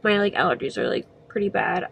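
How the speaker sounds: blocked nose, stuffy voice; congested. Real, not acted. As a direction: speak through a stuffed-up nose. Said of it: "I'm, like, super congested".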